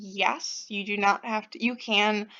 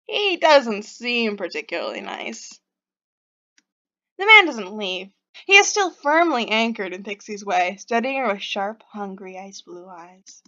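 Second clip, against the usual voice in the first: story narration. A narrator's reading. Reads the game's narration aloud.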